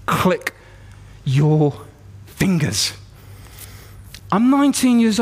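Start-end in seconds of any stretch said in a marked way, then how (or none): 0.0-2.9 low, one word at a time with long pauses; measured, deliberate command; inner voice of God. Retold or imitated. A voice comes into his head, low deliberate instruction. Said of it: "And the voice says".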